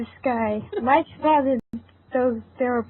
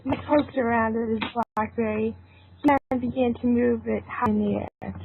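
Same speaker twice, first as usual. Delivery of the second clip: steady storytelling read; story narration. A narrator's reading. Narrator telling the friends' adventure, in a calm storytelling voice. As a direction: narrate the scene evenly for listeners.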